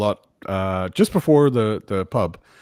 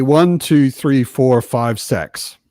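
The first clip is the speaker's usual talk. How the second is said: New Zealand counting, "sex" for six; light New Zealand accent, flattened vowels; mock Kiwi accent counting to six; much slower than usual. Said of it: "when Kiwis count, they say".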